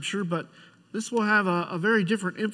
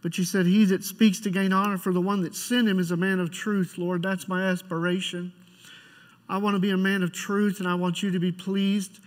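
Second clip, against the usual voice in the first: prayer; 3 semitones lower than usual. Acted. Pastor leads opening prayer.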